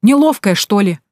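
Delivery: put-on jeering at clumsy girl; mocking jab. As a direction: needle her for being clumsy. Man mocks clumsy Tanka.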